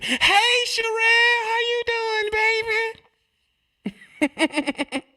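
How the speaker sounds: very high, fake-sweet squeal; high-pitched, overdone sweet greeting; two-faced mama greeting. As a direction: gush a false hello way up high.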